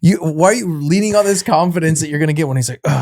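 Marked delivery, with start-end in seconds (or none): 0.0-2.6 raised-pitch, playful scolding; retold mild telling-off; gentle chiding. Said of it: "chiding him a little bit". 2.8-3.0 mock irritated teen groan; retold huff of irritation; kind of irritated. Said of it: "so he's kind of irritated".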